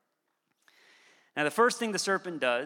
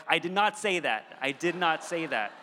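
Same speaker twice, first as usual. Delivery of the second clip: mild mock yell of exasperation; mock screaming. Dad screaming at his five-year-old boy, only mildly raised. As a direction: insist firmly, imitating a yelling dad. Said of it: "I'm, like, screaming at my five-year-old boy".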